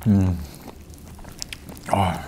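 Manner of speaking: murmuring through closed lips; candy crackling in mouth; mouth full of candy. Real, not acted. Seen 4: Ate candy earlier; lips pursed, mouth closed and working during words.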